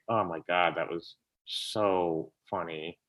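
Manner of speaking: hushed delight, almost to yourself; quiet awe. Retold or imitated. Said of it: "I just was like".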